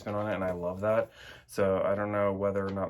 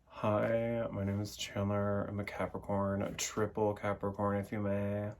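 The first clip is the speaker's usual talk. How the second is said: lightly put-on English accent; 4 dB quieter than usual. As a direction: introduce yourself in a mock English accent. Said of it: "That accent is my favorite thing".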